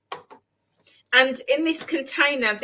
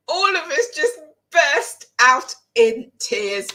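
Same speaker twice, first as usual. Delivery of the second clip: tearful laughing; 4 semitones higher, 4 dB louder, slower than usual. Real, not acted. Friends crying at film's end.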